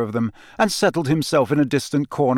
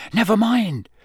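higher, hasty dismissal; quick brush-off; 9 semitones higher, 3 dB louder than usual. A narrator's reading. Harry covering for Hagrid, quickly dismissive. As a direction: brush the question aside quickly. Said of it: "said Harry quickly".

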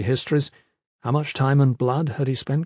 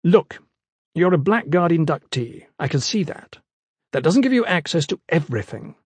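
put-on lecturing young scholar; 3 semitones higher than usual. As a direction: lay down the rules primly.

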